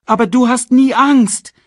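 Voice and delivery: high, loud cub voice; Simba. A narrator's reading. Cub to the father he admires, high and insistent. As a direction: protest in a high child's voice. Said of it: "meinte Simba".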